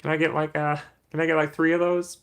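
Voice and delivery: high-pitched hesitant customer voice; mock customer, stalling on the ums; drive-thru customer. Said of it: "Pull up to McDonald's".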